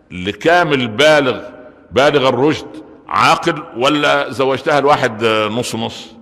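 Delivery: slow deliberate emphasis. Shown as a demonstration. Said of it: "slow, weighted questioning".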